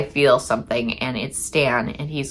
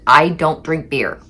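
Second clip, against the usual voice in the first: slow, weary, spelled-out refusal; exasperated repeat; slower than usual. Retold or imitated. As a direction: say it slowly, tired of repeating yourself. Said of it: "For, like, the ninetieth time".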